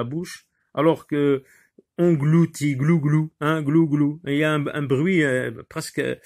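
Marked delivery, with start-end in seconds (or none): 2.7-4.2 swallowing sound. Shown as a demonstration. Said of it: "c'est presque un onomatopée".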